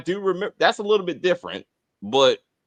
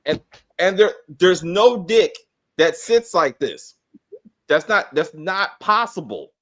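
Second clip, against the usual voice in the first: irritated; 5 dB louder than usual. Real, not acted. Host arguing the prop is anatomically impossible, irritated. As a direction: lay out the objection with weighty emphasis. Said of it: "I'm getting really, really irritated".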